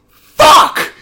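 sudden high, loud cry of dismay; shocked swear. Retold or imitated. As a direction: blurt it out in the packed theater. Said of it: "she goes".

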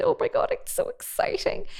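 high, airy squeal of delight; thrilled, squeaky aside; giddy excitement. Real, not acted. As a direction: geek out in a high half-breath. Teacher thrilled by the overtones.

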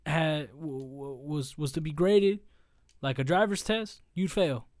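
loud, slow, scornful ranting; angry rant. Acted. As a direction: tear into him, loud and disgusted. Loud rant roasting Deji's fighting.

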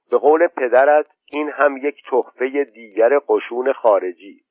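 put-on a lively boy reporting to his mother; boy Khosrow telling. Khosrow tells his mother what the foreigners said, eagerly.

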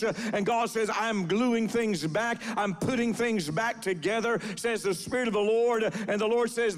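preacher's rolling, chanted prophecy cadence; prophetic word. Real, not acted. Preacher speaking God's promise to a woman, prophetic declaration. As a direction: deliver it as a steady, driving word from the Lord.

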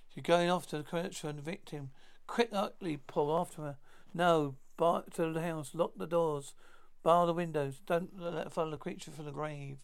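stiff, overwrought radio drama lines; stilted old movie melodrama. Acted. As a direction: ham it up like a creaky horror serial. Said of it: "stilted old movie melodrama dialogue".

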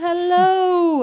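high, loud, posh-styled "hello"; British hello. Shown as a demonstration. Greeting anyone who stops, in a British accent. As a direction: sing out hello like a Brit. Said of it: "wanting to say hello".

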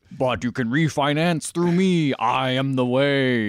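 slow, grand demon proclamation; solemn, menacing Hell priest; Pinhead voice. Pretend. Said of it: "he's just like".

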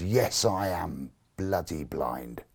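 slow, low, bitter retort, retold; spat-out retort. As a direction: spit out each word slowly, with contained anger. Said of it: "I literally spat out the words".

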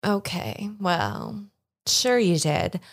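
lightly voiced cold lady leaving the thieves; dismissive villain. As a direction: hand the threat over politely. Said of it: "she just sort of looks at all you guys and goes".

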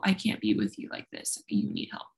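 softly whispered retold plea; retold hushed plea. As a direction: drop to a whisper for the friend's words.

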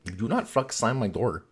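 mild imitation of a thick German accent; Gunther's German accent. Quoting the racing team boss in a German accent. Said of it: "this, like, thick German accent".

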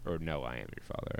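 deep quiet Vader impression; low haunting voice. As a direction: hush it down like Vader. Quoting Vader line.

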